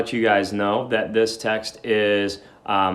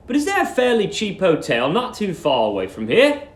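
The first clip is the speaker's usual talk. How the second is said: Billy asking politely; 8 semitones higher than usual. Acted. Billy asks the porter for directions, polite and raised. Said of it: "he said".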